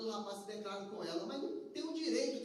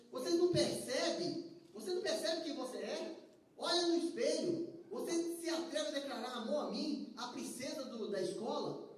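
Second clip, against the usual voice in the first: scornful rejection; 4 semitones higher than usual. Acted. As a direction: look down on him from a great height. Proud girl rejects the boy.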